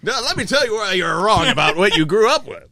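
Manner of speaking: mock lecturing. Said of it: "Scott is gonna tell you".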